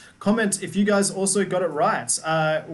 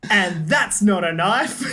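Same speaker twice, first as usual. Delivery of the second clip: mock Australian; 3 semitones higher, 4 dB louder, slower than usual. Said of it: "try say something as Lee as an Australian".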